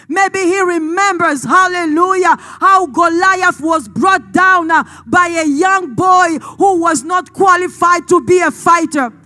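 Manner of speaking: forceful, emphatic sermon storytelling; impassioned preaching. Real, not acted. Preacher recalling God's past victories for the congregation, impassioned. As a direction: preach it with conviction.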